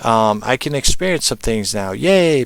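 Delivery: high, excited squeal of a spirit that found a home; cheery ghost moving in with delight; happy spirit. Retold or imitated. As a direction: play a spirit thrilled with its free home. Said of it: "it's like".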